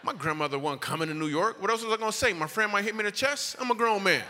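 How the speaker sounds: high, loud self-justifying protest; mock indignant. Comic defending his grandmother excuse to the crowd, mock indignant.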